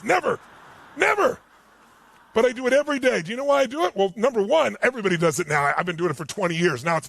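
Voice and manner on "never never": NEVER pitched high, then higher still; emphatic denial. Real, not acted. Speaker denies ever wanting the cold plunge, emphatic NEVER. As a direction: punch each NEVER alone, pause between.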